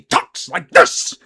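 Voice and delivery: hard, over-enunciated mock yell; Adam Driver yelling. Shown as a demonstration. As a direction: punch each word with heavy enunciation. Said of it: "I can do him kind of yelling".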